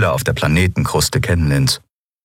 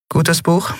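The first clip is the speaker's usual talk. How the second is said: feigned disinterest; 11 semitones higher than usual. A narrator's reading. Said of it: "so desinteressiert wie möglich zu klingen".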